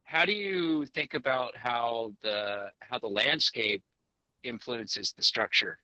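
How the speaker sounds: slowed, clear restatement; slow careful repeat. Real, not acted. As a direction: say it slowly so it carries. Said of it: "To try it again?".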